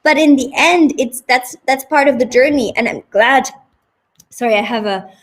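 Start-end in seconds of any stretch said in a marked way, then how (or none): 4.3-5.1 talking with something in mouth; words round something in the mouth; mouth full. Real, not acted. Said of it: "something in my mouth".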